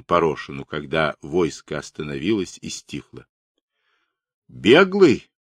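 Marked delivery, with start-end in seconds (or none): 4.5-5.3 higher, louder stern question; menacing. A narrator's reading. Ataman questioning the runaway, menacing. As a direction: demand it as an interrogator. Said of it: "грозно спросил Радилов".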